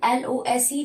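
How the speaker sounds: letters spelled out slowly, one by one; slow spelling out. Shown as a demonstration. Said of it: "हम इसे लॉस पढ़ेंगे".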